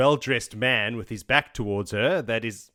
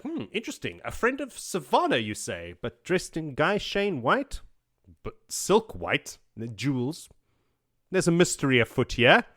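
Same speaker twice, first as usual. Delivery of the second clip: musing Perrin; 4 semitones higher than usual. Retold or imitated. Perrin puzzling over the Aes Sedai's white silk, mock musing. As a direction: ponder it aloud like a sleuth.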